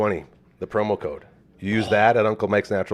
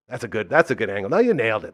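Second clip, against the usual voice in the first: ordinary delivery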